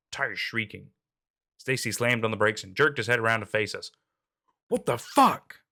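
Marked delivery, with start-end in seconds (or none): 4.7-5.6 loud, high outburst; startled angry yell. A narrator's reading. Driver yelling at his screaming passenger after braking hard. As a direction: yell it in shock. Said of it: "he yelled".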